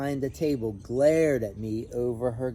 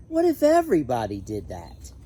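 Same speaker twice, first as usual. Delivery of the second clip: louder, head-shaking reproach; a touch of a grumpy neighbour, louder; stern neighbour; 6 dB louder than usual. Acted. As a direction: call it out from the doorway, disapproving. Neighbour shakes head at honking.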